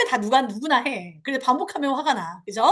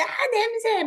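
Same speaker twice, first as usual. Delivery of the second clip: disgusted; 8 semitones higher, slower than usual. Retold or imitated. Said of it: "막 이러면서 아이가 부끄럽게".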